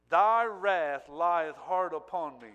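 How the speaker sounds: slow, loud, drawn-out lament on "Thy wrath lieth hard upon me"; anguished cry. Acted. Preacher voicing Jesus's cry of anguish, slow and loud. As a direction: cry the verse out slowly and heavily. Cried verse, later repeated plainly.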